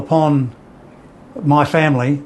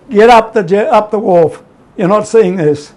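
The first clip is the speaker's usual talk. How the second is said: urgent order; 5 semitones higher, 5 dB louder than usual. Retold or imitated. Father ordering child away.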